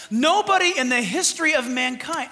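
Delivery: preaching full force, nearly yelling; excited yelling. Real, not acted. Pastor so excited he yells at the church. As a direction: let the excitement burst out on the line. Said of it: "am I yelling?".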